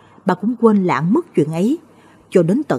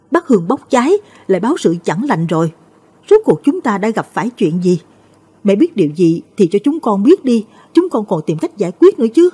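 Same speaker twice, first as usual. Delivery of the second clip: higher and louder, alarmed; panicked cry; 4 semitones higher, 4 dB louder than usual. Acted. Daughter-in-law panics at the burning incense, alarmed cry. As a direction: cry out in fright as the incense burns. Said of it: "Cô My hốt hoảng kêu lên".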